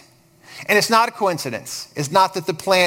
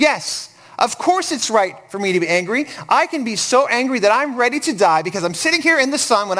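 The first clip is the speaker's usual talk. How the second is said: exasperated; 4 semitones higher than usual. Retold or imitated. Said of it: "Jonah this time's had enough".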